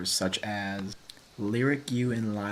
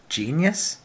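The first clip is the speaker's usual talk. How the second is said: mock amazement; 6 semitones higher, 5 dB louder than usual.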